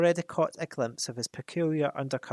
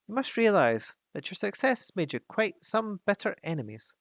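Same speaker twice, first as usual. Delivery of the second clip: higher, earnest hobbit voice putting on a brave front; hobbit standing firm; 5 semitones higher than usual. Acted. Bilbo defends the dwarves to the dragon, nervously brave. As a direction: bluff loyally in front of the dragon. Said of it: "in an effort to remain loyal".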